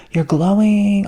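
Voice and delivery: hammed-up admirer gushing "You're glowing."; gushing compliment. People complimenting you, quoted.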